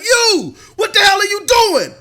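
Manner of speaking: high, loud mock crowd shouting; imitating a yelling crowd. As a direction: bellow at the runner like an angry stadium. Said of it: "the people in the crowd under that scenario be like".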